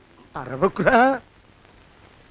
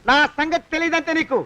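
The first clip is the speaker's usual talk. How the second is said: angry threat; 2 semitones higher than usual. Acted. Man threatening the moneylender in a fight, angry. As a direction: threaten to kill him, seething.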